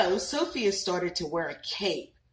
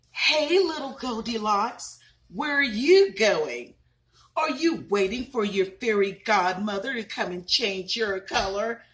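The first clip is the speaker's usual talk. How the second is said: mocking unicorns; 2 semitones higher, 4 dB louder than usual. Bullying unicorns teasing Sophia about her gold coat, mocking sing-song. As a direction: taunt her like a playground bully. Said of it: "unicorns would point and make fun of her".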